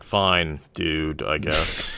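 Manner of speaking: slow, grudging "fine, dude"; grudging middle-aged guy. Retold or imitated. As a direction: drag it out like a reluctant middle-aged man. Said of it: "imagining the middle-aged guy and be like".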